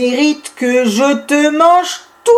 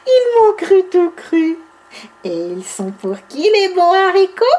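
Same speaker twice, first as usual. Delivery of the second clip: gleeful; 6 semitones higher than usual. Acted. Bibi gloats after trick.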